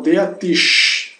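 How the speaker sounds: "deatish" with its final sh held like a hush; German pronunciation demo. Shown as a demonstration. Teacher applying the hush sound to the word, German pronunciation demo. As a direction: model "deatish" ending on a clear sh. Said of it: "esse detalhe da pronúncia".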